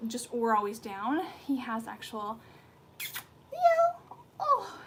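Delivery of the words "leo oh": high, loud call of the name; high pet voice. Real, not acted. Owner calling her puppy by name in a high pet voice.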